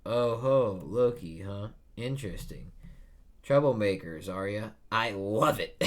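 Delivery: hammed-up cackling old-timer, loud in bursts; old man voice. Narrator voicing an old timer teasing the pirates, loud and amused. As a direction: play the sly old coot who loves troublemakers. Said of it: "And he goes".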